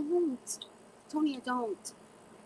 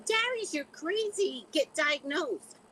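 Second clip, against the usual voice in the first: much higher, slow mock-stern voice; imitating Kiki; 13 semitones higher, 4 dB louder, slower than usual. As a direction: play Kiki scolding Darius, high and slow. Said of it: "She says".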